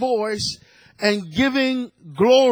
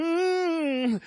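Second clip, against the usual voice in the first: grumbling hum; 6 semitones higher, 6 dB quieter than usual. Retold or imitated. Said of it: "my heart started going".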